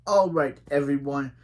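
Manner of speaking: put-on light British accent, brighter opening; a hint of a British coach. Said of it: "so I have to do my good British accent".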